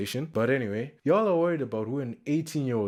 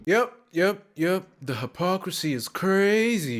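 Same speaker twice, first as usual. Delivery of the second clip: emphatic agreement; 9 semitones higher, 5 dB louder than usual. Real, not acted.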